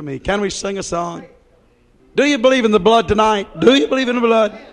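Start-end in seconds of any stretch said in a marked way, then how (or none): 2.1-4.6 preaching call. Real, not acted. Preacher calling out to congregation.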